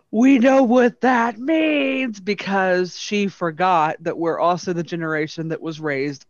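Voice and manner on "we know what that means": mock chorus. Class catches teacher's swear word.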